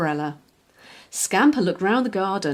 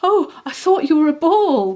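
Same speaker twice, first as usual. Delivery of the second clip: giggling; 8 semitones higher, 6 dB louder than usual. Acted. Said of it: "giggled Scamper".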